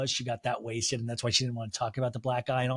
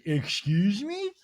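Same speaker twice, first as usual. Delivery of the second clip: slow, drawn-out, higher mock British excuse me; 6 semitones higher, much slower than usual. Meredith offended by Whitney's remark, mock British. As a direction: stretch out Excuse me? like an offended Brit. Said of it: "Meredith goes".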